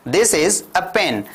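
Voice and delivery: slow, clear classroom drill; slow model sentence. Shown as a demonstration. Teacher drilling simple sentences slowly for learners. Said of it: "अभी कैसा लग रहा है?".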